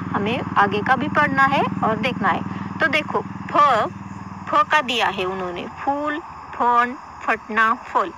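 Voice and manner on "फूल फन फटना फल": फूल, फन, फटना, फल with an aspirated ph; plain ph sound. Shown as a demonstration. Teacher reads फूल, फन, फटना, फल as plain ph. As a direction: say फूल, फन, फटना, फल slowly with a puffed ph. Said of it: "ये सीधे है".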